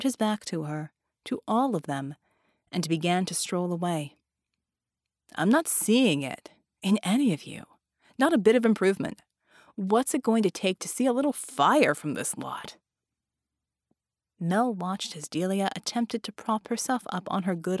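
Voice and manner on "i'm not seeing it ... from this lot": scorn the whole group; frustrated trainer. Acted. Frustrated trainer mocking his class.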